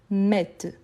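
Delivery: "mettent" drawn out to an audible t; sounded T. Shown as a demonstration. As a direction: open eh in "mettent", then a clear t. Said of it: "le T, c'est le son d'accent". (« mettent » allongé, le t final prononcé)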